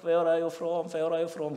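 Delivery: lightly mimicked eager student; eager kid. Preacher imitating sixth graders chasing foreigners, eager. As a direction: chase the foreigner with the question. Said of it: "쫓아가서".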